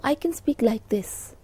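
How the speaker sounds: soft, quiet demo of a low tone; low volume. Shown as a demonstration. Teacher showing students a low tone, softly. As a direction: drop the volume right down to show it. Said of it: "My tone is low".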